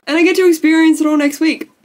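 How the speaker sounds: real tears breaking through; tearful. Real, not acted. Vlogger tearing up telling viewers about next week, tearful. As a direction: voice rising as tears come. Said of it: "I'm gonna start crying".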